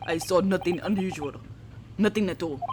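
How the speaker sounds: a lightly voiced, evasive Russian guard; defensive Russian sailor. The sailor denying anything to the questioning hero, in a mild Russian accent.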